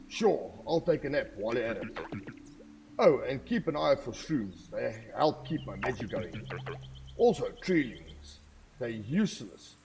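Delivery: a lightly voiced old guardian tree, chiding then wry; wise tree guardian. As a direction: read it as a kindly old tree scolding a reckless hero. Reading tree NPC dialogue.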